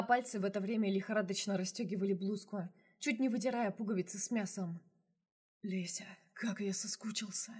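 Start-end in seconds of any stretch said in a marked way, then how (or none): 5.6-7.5 breathless whispered moan, softer. Acted. Lover moaning to Lesya in his arms, whispered. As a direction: whisper it, aching with longing. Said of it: "простонал он".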